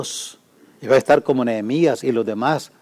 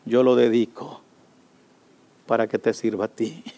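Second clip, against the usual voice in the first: Ana praying; 2 semitones higher than usual. Pretend. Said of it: "Y dijo".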